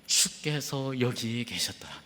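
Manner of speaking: breathy hush of a sister's lament; hushed whisper. Acted. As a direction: whisper it slowly, like a grieving sister. Martha's lament read slowly. (속삭이듯 천천히)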